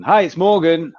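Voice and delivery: upbeat phone hello; loud, bright greeting. Retold or imitated. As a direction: greet with a burst of energy. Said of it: "someone saying".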